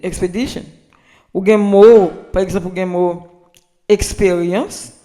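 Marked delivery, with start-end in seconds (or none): 0.0-0.6 Expedition said the English way, ending in -shun; "Expedition" with English vowels; English pronunciation. Shown as a demonstration.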